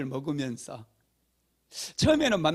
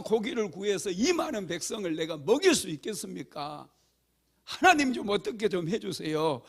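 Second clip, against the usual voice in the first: pleading lament; 2 semitones higher than usual. Retold or imitated. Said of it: "또 하소연을 해요".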